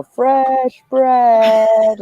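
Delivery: high, loud market call; Ren Fair crier. Retold or imitated. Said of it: "like the wenches at the Ren Fair".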